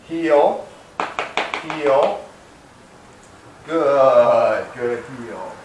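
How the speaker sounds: dog command voice. Real, not acted. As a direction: call the dog to heel and praise it.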